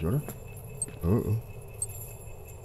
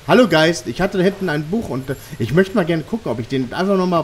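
yelling across the room; 5 semitones higher than usual. Real, not acted. Calling the ghost in the room.

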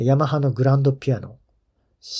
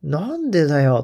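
mildly raised, protesting retold shout; mock yell at screen; 3 semitones higher, 4 dB louder than usual. Fan protesting that a favourite player isn't shown, mock yelling. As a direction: complain at the television, half-shouting. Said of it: "画面に向かって叫んでたら".

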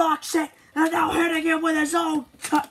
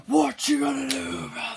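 wrestler promo voice. Pretend.

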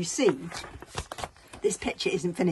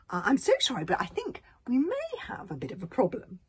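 higher, hesitant apology; sheepish; 5 semitones higher, 3 dB louder than usual. Acted. Tsar admits a problem to his friends, sheepish. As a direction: break bad news nervously.

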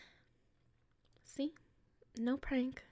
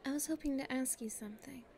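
whisper. Acted.

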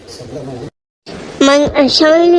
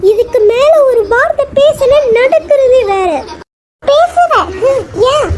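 threatening; 6 semitones higher than usual. Acted. Threatening warning in quarrel.

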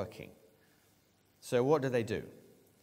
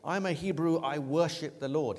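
higher and louder, with dry irony; ironic; 5 semitones higher, 5 dB louder than usual. Retold or imitated. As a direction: say it with a wink, knowing it's hollow. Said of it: "he replies in a very ironic way".

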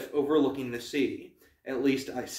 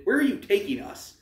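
demanding, high; 9 semitones higher than usual. A narrator's reading. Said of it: "Bianca demanded".

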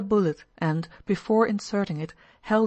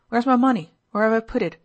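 louder, higher cry; 5 semitones higher, 8 dB louder than usual. A narrator's reading. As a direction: call out hunting for the money. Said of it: "he cried".

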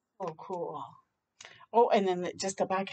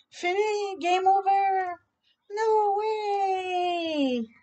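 higher, protesting cry; disappointed kids; 9 semitones higher, much slower than usual. Acted. Kids groan as rain stops the game, protesting.

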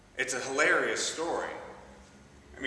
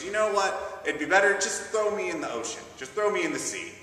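higher, louder desperate plea; Jonah in the storm; 7 semitones higher, 5 dB louder than usual. Acted. Jonah begs sailors during storm, loud desperate plea. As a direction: throw yourself overboard, pleading loud. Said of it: "and Jonah says".

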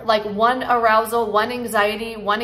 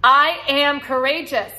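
higher and louder, slow declaration; proud affirmation; 4 semitones higher, 4 dB louder, slower than usual. Shown as a demonstration. Coach leading viewers in a chant, higher and louder with conviction. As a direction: proclaim "I am courageous" slowly, with full conviction. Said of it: "Say it with me".

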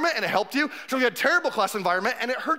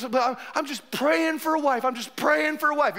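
mock-pious praying; 3 semitones higher than usual. Mimicking single man praying.

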